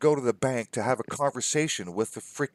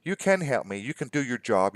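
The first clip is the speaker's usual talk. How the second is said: frustrated retort; 4 semitones higher than usual. Retold or imitated. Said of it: "I got frustrated".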